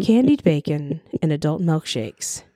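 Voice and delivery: low, slow public radio announcer; NPR voice. Shown as a demonstration. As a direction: read it like a public radio host. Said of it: "Was that your radio voice".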